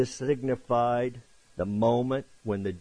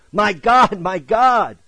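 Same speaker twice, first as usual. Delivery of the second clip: high, loud imitation of a cry; crying out in anguish; 8 semitones higher, 10 dB louder, slower than usual. Preacher re-enacting the cry from the cross, crying out in anguish. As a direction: call it out emphatically, as a retold plea. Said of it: "as he's crying out".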